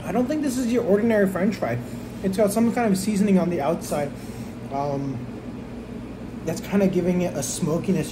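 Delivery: chewing between words; talking while chewing. Real, not acted. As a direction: mouth partly full of food. Seen 2: Takes a fry at -7; the mouth keeps working while he talks.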